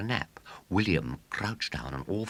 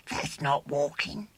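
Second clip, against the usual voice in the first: scornful; 13 semitones higher than usual. A narrator's reading. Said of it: "urged William scornfully".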